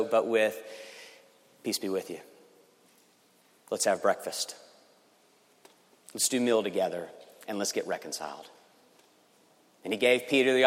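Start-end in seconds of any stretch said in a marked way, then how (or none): 1.6-8.5 soft and tender, much quieter, fading away; gentle Jesus voice. Acted. Risen Jesus gently invites Peter to breakfast, soft and tender. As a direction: reassure a broken friend softly.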